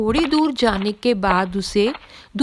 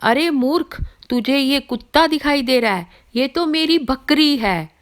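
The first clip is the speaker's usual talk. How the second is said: higher, sharp scolding of a fool; angry rebuke; 5 semitones higher than usual. Acted. Pandit snapping angrily at the first thug. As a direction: scold him for calling the goat a dog. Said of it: "पंडित को सुनकर पहले गुस्सा आया".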